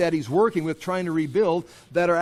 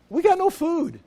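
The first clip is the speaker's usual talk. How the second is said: much higher, whiny complaint; complaining wife; 11 semitones higher than usual. Pretend. Wives complain to Nehemiah about food, whiny high voice. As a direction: whine it like a hungry wife.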